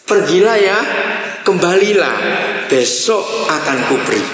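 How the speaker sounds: gently coaxing, with pauses between phrases; smooth polite refusal. Shown as a demonstration. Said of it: "Jadi ini gini intonasinya".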